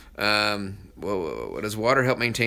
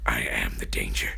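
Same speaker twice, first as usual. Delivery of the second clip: very low, whispery menacing impression; deep, hushed TV villain voice; Walter White; 14 semitones lower than usual. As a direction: growl it low under your breath. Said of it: "In Walter White's voice, please say".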